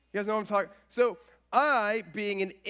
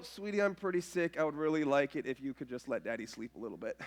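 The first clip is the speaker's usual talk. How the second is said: sleepy plea; 7 semitones lower, 6 dB quieter, faster than usual. Retold or imitated. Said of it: "And I go".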